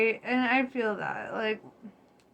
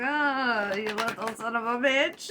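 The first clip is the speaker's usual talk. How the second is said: laughing mock insult. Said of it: "You're like".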